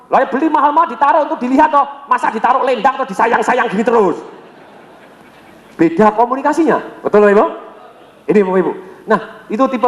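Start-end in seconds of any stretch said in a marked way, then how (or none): 0.1-4.2 quoting dad. Retold or imitated. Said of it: "papa ngomong gini".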